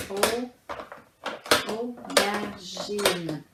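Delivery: slow, separated syllables. Shown as a demonstration. Teacher confirming three syllables, syllable by syllable. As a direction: break "aubergine" into three slow beats. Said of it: "Trois syllabes".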